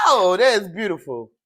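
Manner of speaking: loud, bursting with delight at the card; a loud, thrilled gasp of praise; delighted outburst. Real, not acted. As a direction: exclaim it like you can't believe your luck. Reacting to a tarot card.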